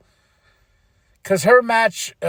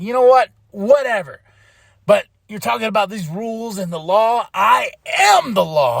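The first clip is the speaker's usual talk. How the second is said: imitating Cody's rant; 2 semitones higher than usual. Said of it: "going after Nick Aldis".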